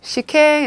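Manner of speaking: "시행" as shi-ken, said carefully on its own; careful teacher's reading of "시행" as shi-ken; Japanese reading demonstrated. Shown as a demonstration. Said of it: "이렇게 읽어주세요".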